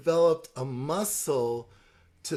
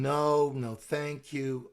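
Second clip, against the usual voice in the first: calm soft no; slower than usual. Shown as a demonstration. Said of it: "Calmly, soft, repeating".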